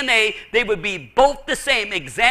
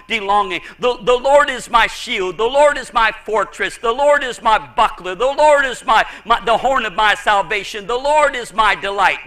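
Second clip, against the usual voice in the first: punchy, louder repeated declarations; personal litany; 4 dB louder than usual. Retold or imitated. Preacher quoting the psalmist's personal words, emphatic litany. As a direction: hit each line of the litany firmly. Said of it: "he used it in such personal, intimate ways".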